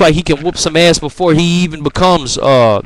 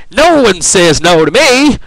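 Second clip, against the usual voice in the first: slow, slightly raised mock-menacing villain; hammy villain line; 4 semitones higher, 3 dB louder, slower than usual. Vlogger imitating the Goblin's cheesy threat, slow hammed-up menace. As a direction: lean into it like a cheesy movie baddie. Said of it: "then he goes".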